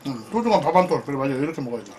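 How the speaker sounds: talking while chewing, lips smacking; chewing loudly. Real, not acted. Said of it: "원래 이렇게 쩝쩝거리고 먹니?". (쩝쩝거리며 씹으면서 말하기)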